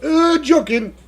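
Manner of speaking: high, loud shouted "Jokin"; Street Fighter move call. Pretend. Streamer waiting for a driver, in a Street Fighter battle cry. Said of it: "that thing from Street Fighter".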